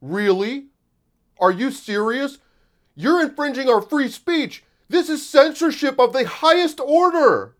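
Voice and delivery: high, loud, rising mocking disbelief; mocking outraged users at Elon, climbing high and loud; mock indignant tweeters. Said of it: "they're like".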